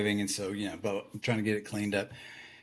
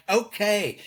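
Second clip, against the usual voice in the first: grudging okay; 9 semitones higher, 4 dB louder than usual. Retold or imitated. Grudging compliance while furious.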